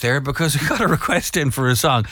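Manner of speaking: real puffing after a dash; out of breath. Real, not acted. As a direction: catch your breath while explaining. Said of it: "I'm out of breath".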